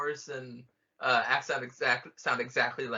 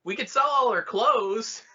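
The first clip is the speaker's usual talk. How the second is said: Obi-Wan impression; 9 semitones higher, 6 dB louder than usual. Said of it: "Obi-Wan immediately is like".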